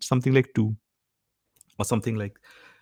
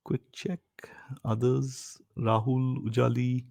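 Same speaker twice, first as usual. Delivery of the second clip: whispered check; 9 dB quieter, slower than usual. Real, not acted. Teacher checking students softly.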